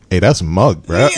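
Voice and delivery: casual Bermudian slang delivery; Bermudian accent. Retold or imitated. Host quoting an Instagram joke, Bermudian accent. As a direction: toss it off in Bermudian. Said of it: "the Bermudian translation is".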